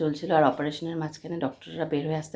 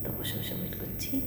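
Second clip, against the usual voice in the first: hushed hospital whisper; 11 dB quieter than usual. Real, not acted. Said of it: "আমি খুব আস্তে আস্তে কথা বলছি".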